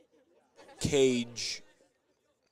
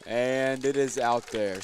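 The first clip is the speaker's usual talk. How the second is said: excited call; 4 dB louder, slower than usual. Real, not acted. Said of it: "as I said, I would like to do my home run call".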